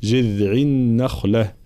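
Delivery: slow "جذع النخلة" with a flowing voiced th; correct dhal. Shown as a demonstration. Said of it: "هكذا". (ذال رخوة في "جذع")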